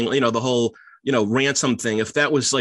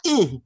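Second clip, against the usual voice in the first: a pained little "mm" wince; imitating a character's wince; mock wince; 7 semitones higher than usual. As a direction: wince through closed lips. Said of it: "he makes that weird, like, wince thing".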